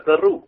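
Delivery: Peru split into two separate Vietnamese syllables, Pê-ru. Shown as a demonstration. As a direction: chop Peru into two distinct beats. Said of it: "họ phải nói thành hai chữ là".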